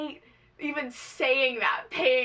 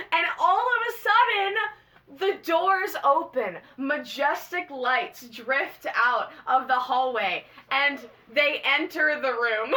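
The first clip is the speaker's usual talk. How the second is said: mock awe; 2 semitones higher, 3 dB louder than usual. Dramatic retelling of stars' entrance.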